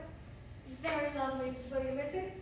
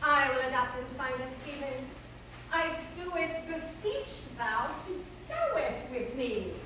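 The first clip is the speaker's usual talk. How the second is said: beseech in stilted stage verse; Selina, beseeching. Acted. Selina beseeching the hero to go with her, theatrical.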